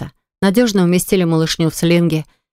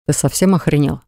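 growled; 3 semitones lower than usual. Acted. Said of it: "прорычал он брату в лицо".

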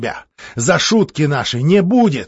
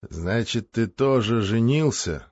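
strange question; slower than usual. Acted. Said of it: "странно спросил".

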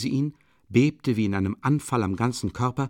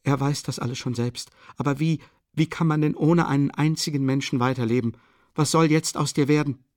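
raised, higher-pitched worry; distraught pleading; 6 semitones higher, 4 dB louder than usual. A narrator's reading. Sonja asking what will become of him, distraught. Sonja despairs for his future.

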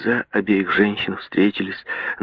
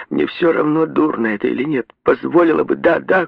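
piercing cry; 8 semitones higher than usual. A narrator's reading. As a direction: scream it out, shrill and desperate. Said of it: "крикнула она пронзительно".

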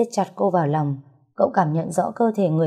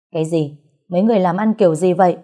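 angry; 4 dB louder, faster than usual. Acted. General furious at subordinates.

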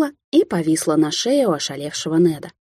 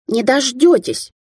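defiant cry, higher and slow; shouting out; 7 semitones higher, 3 dB louder, slower than usual. Acted. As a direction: fling it out from the dark corridor. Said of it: "прокричала откуда-то Алисия".

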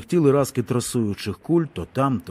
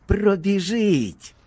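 high, very slow mocking drawl; sour, mocking drawl; 8 semitones higher, much slower than usual. A narrator's reading. Soldier mocks Petro's words with a sour drawl. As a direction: stretch it out sourly, making your teeth ache. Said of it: "було сказане таким голосом, що від нього оскома".

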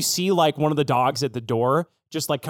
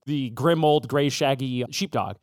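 usual speaking voice

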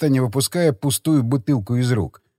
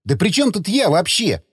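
higher-pitched mild grumble; grumbling; 5 semitones higher than usual. Acted. Friend objecting to the woman's blame, grumbling. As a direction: protest innocence, lightly put out. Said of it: "проворчал Загорский".

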